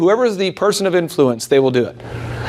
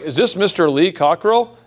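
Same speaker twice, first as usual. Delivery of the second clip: formal cold caller. Shown as a demonstration. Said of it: "if I'm like".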